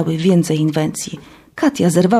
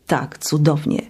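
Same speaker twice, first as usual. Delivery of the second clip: gloomy mutter; 3 semitones lower, 4 dB quieter than usual. Acted. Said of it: "mruknęłam ponuro".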